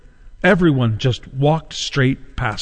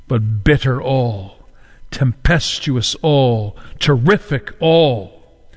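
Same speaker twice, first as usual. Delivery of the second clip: slow, measured pulpit oratory; solemn preaching; slower than usual. Real, not acted. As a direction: preach it slowly, weighing each phrase. Preaches the woes of Christ.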